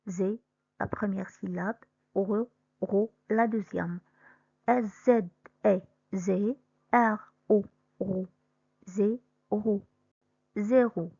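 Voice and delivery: zé then ro, then zéro said whole; teacher blending syllables; sounding out a word. Shown as a demonstration. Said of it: "La même chose pour le mot zéro".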